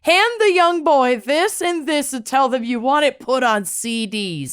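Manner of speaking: put-on old lady voice. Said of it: "You love your old lady voice today".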